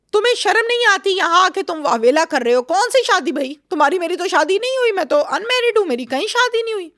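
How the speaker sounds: high-pitched outraged retort, voiced by the narrator; retold furious confrontation, pitched well up; indignant scolding. Doctor confronts the fraudster at gate.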